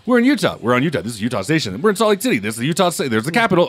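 singsong, high-pitched parody of clunky dialogue; hammed-up over-explaining; mocking exposition. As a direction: announce each place with heavy, mocking obviousness.

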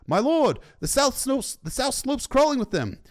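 very high, urgent character voice; alarmed warning. A narrator's reading. Soldier warning commander of enemies on south slopes, alarmed. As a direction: cry the warning up to your lord.

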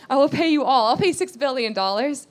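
a debtor swearing he'll repay everything; servant's promise. Acted. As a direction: belt out the servant's empty promise. Preacher voices the indebted servant.

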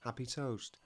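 mock tender. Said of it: "he's got the chapstick out".

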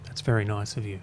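soft whispered thanks. Real, not acted. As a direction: breathe a dry thank-you. Mock thanks to Matt.

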